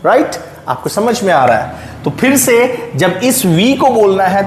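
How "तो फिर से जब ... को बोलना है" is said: ordinary delivery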